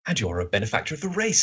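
lightly voiced admiring sidekick; Watson. Podcaster playing Watson praising Holmes, lightly voiced. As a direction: read it as a mild impression of an earnest companion. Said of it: "that's my Watson voice".

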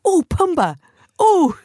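high, loud delighted squeal; squealing at Pumbaa. Retold or imitated. Kids on safari squealing at a warthog, high delighted squeal. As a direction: squeal like a kid spotting a warthog.

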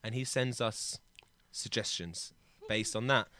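soft unvoiced whisper; whispered aside. Real, not acted. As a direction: whisper it like a secret. Whispered secret.

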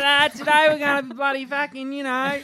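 high, hammed-up aggressive surgeon; mock yelling. Yelling surgeon telling the patient about today, mock aggression. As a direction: rant in a high, pushy put-on voice. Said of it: "If he's yelling".

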